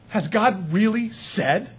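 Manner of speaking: slow, drawn-out doubting question; sly serpent. Retold or imitated. Enemy questioning God's word again, slow and sly. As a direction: plant the doubt slowly. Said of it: "The enemy goes".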